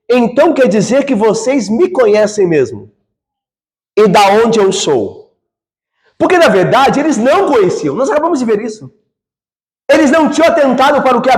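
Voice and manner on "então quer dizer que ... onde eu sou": mock-surprised, incredulous questioning; a teasing, disbelieving question; ironic question. Shown as a demonstration. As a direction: ask it with biting irony, slowly. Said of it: "Então ficaria assim".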